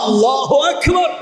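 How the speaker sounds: high, slow, drawn-out takbir call; rousing takbir. Real, not acted. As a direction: call the crowd to praise, pitched high. Takbir at the story's climax. (উঁচু টানা সুরে তাকবির ধ্বনি)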